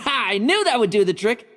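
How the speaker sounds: laugh, then gloat a little; pleased laugh. Acted. Knight gloating that his trick worked, laughing. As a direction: chuckle triumphantly.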